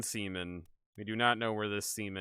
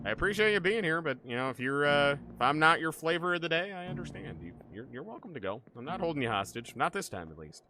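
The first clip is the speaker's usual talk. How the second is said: higher, sing-song mock wounded tone; mock hurt; 6 semitones higher than usual. Streamer teasing a viewer who left, high mock hurt. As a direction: pretend to be offended, playfully. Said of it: "teasing departing viewer".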